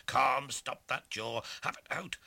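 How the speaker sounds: loud fierce challenge; challenging. Acted. Tom daring the lawyer to fight, loud and fierce. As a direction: dare him to fight, loud. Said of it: "says I".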